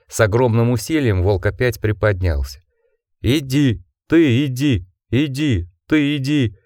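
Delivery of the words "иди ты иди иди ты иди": 1 weak urging wolf voice. A narrator's reading. Dying wolf urges Jack.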